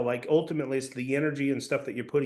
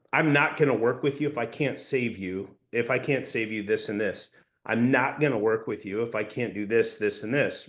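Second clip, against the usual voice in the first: bold statement said with certainty; certain and confident; 3 semitones lower than usual. Shown as a demonstration. Sales coach demonstrating a bold statement, confident and certain. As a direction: state it firmly, as settled fact. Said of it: "certainty and confidence".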